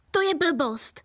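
ordinary delivery

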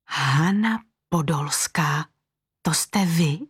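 breathless awed whisper, slow; girl whispering in awe to the famous designer. A narrator's reading. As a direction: whisper the name in wonder.

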